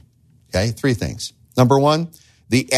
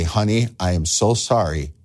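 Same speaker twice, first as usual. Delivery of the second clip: apology to wife; 2 semitones lower than usual. Retold or imitated. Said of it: "go back to your wife and say".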